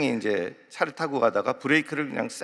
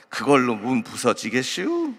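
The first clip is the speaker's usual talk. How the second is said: slow, dry Chungcheong taxi driver; Chungcheong dialect. Retold or imitated. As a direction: needle the passenger slowly in Chungcheong dialect. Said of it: "택시 승객이 내리면서".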